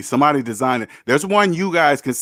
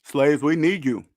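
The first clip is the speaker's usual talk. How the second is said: ice in mouth. Real, not acted. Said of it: "I got some ice in my mouth".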